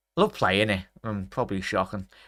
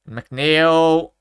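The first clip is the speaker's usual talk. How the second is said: excited call; 5 semitones higher, 8 dB louder than usual. Real, not acted. Goal chance unfolding live.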